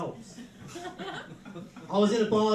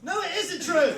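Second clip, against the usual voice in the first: higher-pitched, laughing denial; mock indignant protest; 7 semitones higher, 4 dB louder than usual. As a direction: protest playfully, pitch jumping up. Comic protest to heckled agreement.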